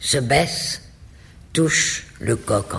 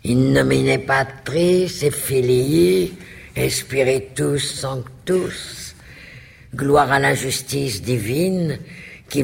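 mocking tone; 2 semitones higher than usual. The duke mock-blesses the meal for Ambrosio, lightly mocking. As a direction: gently parody a priest's blessing. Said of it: "sur un ton moqueur".

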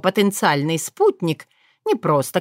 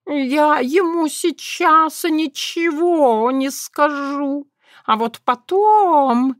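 high slow strained cat whisper; hoarse whispered threat; 8 semitones higher, much slower than usual. A narrator's reading. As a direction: promise revenge under your breath. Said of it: "тем же шёпотом посулил кот".

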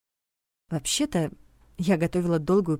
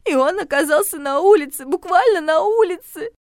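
high, loud, near-sobbing accusation; rising hysteria, voice cracking; hysterical; 11 semitones higher, 5 dB louder than usual. A narrator's reading. Regina blames the heroine for Steve's ruin, hysterical. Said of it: "Регина истерично всхлипнула".

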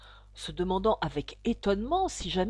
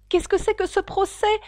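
out of breath; 11 semitones higher, 5 dB louder than usual. Acted. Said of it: "demanda Alice hors d'haleine".

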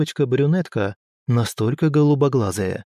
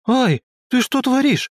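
much higher furious cry; fierce indignant shout; 12 semitones higher than usual. A narrator's reading. Tora loses her hammer to the girl, high furious cry. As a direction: yelp at the thief in outrage. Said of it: "свирепо и одновременно возмущённо прокричала Тора".

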